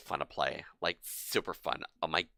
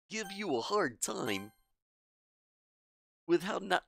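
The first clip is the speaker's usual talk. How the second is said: higher, caring schoolgirl voice; gentle girl voice; 12 semitones higher than usual. Acted. Voices Monika's dialogue.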